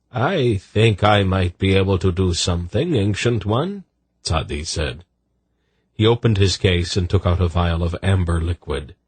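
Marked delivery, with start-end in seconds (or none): 0.1-3.8 lightly voiced eunuch, lifting at the end; eunuch healer. Eunuch offering the Ancient One his help, deferential.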